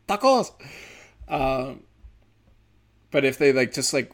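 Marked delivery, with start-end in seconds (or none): 0.1-0.5 high, loud mock Asian accent; hammed-up Asian accent on one word. Comedian tops off the family bit, exaggerated Asian accent. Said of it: "gave 'em an Asian accent there".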